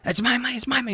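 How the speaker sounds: high whiny street thug; shrill thief voice. Acted. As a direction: squeal it out like a cornered crook.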